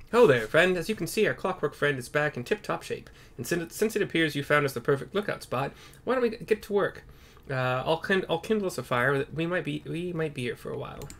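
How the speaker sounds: put-on a lively young archer; young archer NPC greeting the party. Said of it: "He's more like this".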